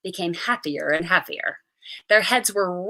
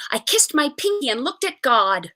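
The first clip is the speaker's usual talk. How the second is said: ordinary delivery, nothing marked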